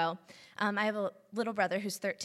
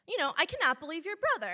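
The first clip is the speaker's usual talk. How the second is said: quick, higher-pitched imitation of an annoyed dad; mock exasperation, rattled off; frustrated dad; 7 semitones higher, faster than usual. Dad phones his child to complain about the brother, frustrated. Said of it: "frustrated, angry, and he's like".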